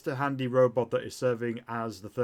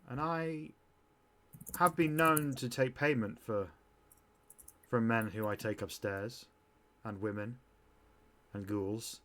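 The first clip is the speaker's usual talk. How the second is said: a hint of a coy woman confiding her trade; lightly voiced lounge singer; 3 dB quieter than usual. Plays lounge singer propositioning customer.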